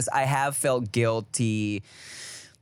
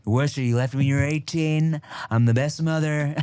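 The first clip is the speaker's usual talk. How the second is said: boastful mother-as-politician parody; Trump. Acted. Mother scolding her child, parody politician voice. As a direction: deliver mom's scolding as a mock presidential boast. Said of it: "slips into Trump".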